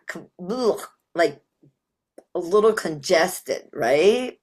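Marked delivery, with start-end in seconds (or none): 0.5-0.8 throaty "ugh" of discomfort; disgusted ugh. Shown as a demonstration. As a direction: groan out a short yucky ugh. Voicing the congested, murky feeling.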